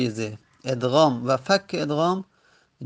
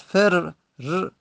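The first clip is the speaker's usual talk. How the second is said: slow demonstration; 3 semitones higher, much slower than usual. Shown as a demonstration. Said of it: "پس".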